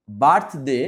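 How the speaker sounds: first syllable বার্থ of বার্থডে stressed; stress on BIRTH. Shown as a demonstration. Teacher shows pupils the clap syllable, stressed বার্থ in বার্থডে. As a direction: lean firmly on বার্থ in বার্থডে. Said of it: "বার্থ উচ্চারণের সময় তালি দিতে হবে".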